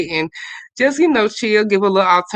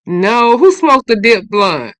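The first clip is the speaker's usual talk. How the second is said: shocked disbelief; 3 semitones higher, 6 dB louder, slower than usual. Real, not acted. Shocked reaction to the chat news.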